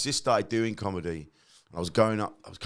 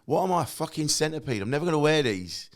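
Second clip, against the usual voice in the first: mock exasperation; 6 semitones higher than usual. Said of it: "but you go".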